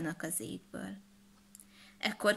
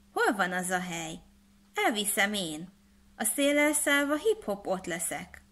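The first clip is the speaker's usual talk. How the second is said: Hanga. Acted.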